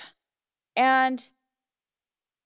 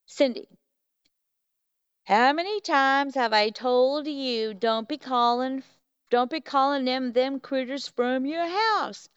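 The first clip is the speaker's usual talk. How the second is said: put-on heavy Southern accent; 3 semitones higher than usual. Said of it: "he's got a heavy Southern accent".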